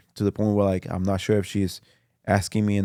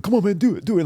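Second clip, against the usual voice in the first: tag along urging; 11 semitones higher, faster than usual. Retold or imitated. Dad urging him on, acted out.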